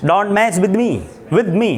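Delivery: teacher models an English-style accent. Shown as a demonstration. Teacher showing students the English accent, English accent. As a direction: say it the English way, lifting up on me. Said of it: "accent लाइएगा English वाला".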